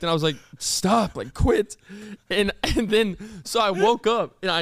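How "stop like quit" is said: retold groggy protest, cut short; tired but direct. Woken student to favorite teacher, tired but direct. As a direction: imitate a blunt sleepy order. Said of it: "but it was so direct".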